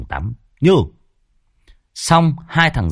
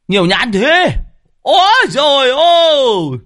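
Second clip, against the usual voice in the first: much higher and louder, thrilled shouting with a laugh; amazed exclaiming; 12 semitones higher, 4 dB louder than usual. A narrator's reading. Men marvel at all the longans on arrival, loud and thrilled. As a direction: gush in delight at the sight.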